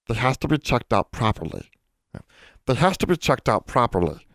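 insistent small creature; prim elf character. A narrator's reading. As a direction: voice a rule-minded little elf.

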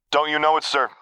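deadpan, dust-dry comeback; guard snarking back at her officer, dry. Acted. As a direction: toss it back dry and sarcastic. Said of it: "she snarked back, voice dry as dust".

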